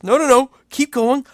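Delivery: high eager squeaky cartoon voice; Mickey Mouse-esque voice. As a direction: plead happily in a squeaky cartoon voice. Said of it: "that weird Mickey Mouse-esque voice".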